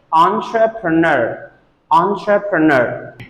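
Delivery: ENTREPRENEUR joined as on-truh-pruh-NUR; said together. Shown as a demonstration. Teacher puts the word back together, said together. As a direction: run entrepreneur's syllables together as one word. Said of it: "If you say it together".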